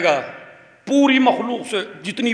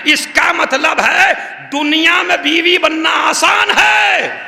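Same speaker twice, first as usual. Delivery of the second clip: raised, slow, ringing pulpit voice; preaching at full force; 8 semitones higher, 3 dB louder than usual. Acted. Preacher to mourners in the majlis, thundering from the pulpit. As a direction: proclaim it to the whole hall.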